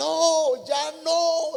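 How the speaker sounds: put-on shrill, very high, loud yell. Voicing the clay piece crying out as it is put in the oven: shouting. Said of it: "yo gritaba".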